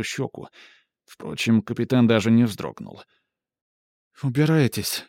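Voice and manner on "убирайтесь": raised, get out; cold dismissal. Acted. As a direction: order him away. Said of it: "сказала Ивон".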